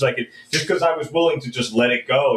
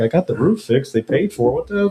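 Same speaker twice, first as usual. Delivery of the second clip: higher, rising to a shocked squeak; building mock outrage; indignant disbelief; 4 semitones higher than usual. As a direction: retell the outrage half-joking. Retelling his indignant reaction.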